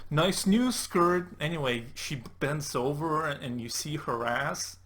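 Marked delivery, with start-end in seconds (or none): 0.1-1.3 mock leer. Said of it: "this is your defense".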